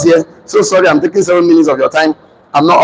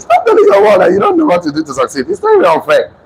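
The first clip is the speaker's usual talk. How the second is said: fired up; 10 semitones higher than usual. Acted. Preacher rebukes the audience.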